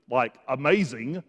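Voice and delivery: mock amazement, dropped in lightly; sarcastic. Real, not acted. Preacher ribs the disciples' surprise, sarcastic. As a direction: play up the obviousness with dry sarcasm. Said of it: "That's sarcasm".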